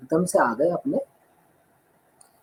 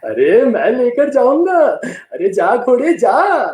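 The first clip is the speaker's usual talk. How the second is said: loud, slow, menacing yell; booming villain; 5 semitones higher, 4 dB louder, slower than usual. Acted. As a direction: ham up a film villain driving the horse off. Villain shouting.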